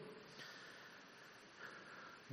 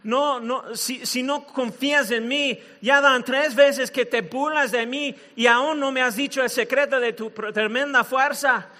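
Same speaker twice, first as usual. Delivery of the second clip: mock tearful pleading; hammed-up lovelorn complaint; crying; 3 semitones higher than usual. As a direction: plead in a slightly raised, whiny voice.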